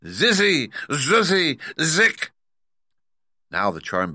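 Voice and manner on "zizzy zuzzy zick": high, loud witch shriek; shrieked incantation; loud witch cry. A narrator's reading. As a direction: cry the spell out to summon. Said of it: "cried in a loud voice".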